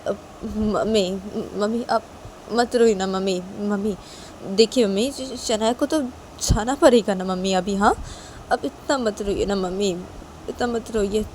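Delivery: mildly upset, coaxing plea; pleading son. Acted. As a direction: gently beg her to stop. Son consoles his crying mother.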